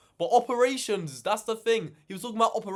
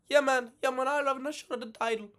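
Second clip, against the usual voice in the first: eager fighter impression; 7 semitones higher, faster than usual. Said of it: "they literally would have called Lopez".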